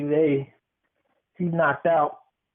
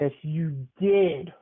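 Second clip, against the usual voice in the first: teasing; much slower than usual. Real, not acted. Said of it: "teasing insistence".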